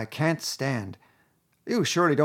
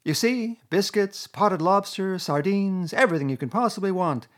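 higher, louder, showing-off Toad; boastful Toad; 7 semitones higher, 5 dB louder than usual. A narrator's reading. Toad showing off supplies to Mole, boastful. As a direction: reel off his treasures proudly.

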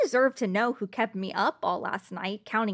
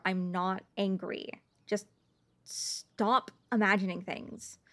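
quiet denial; 3 semitones lower, 6 dB quieter than usual. Acted. Insists calmly she's not angry.

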